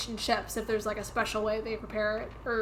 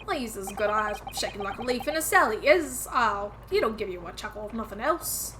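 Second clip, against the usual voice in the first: attempted British accent. Player voicing the game's Cockney detective, slipping into Southern accent. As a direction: try for a London accent but let it go Southern. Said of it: "when I try to do a British accent".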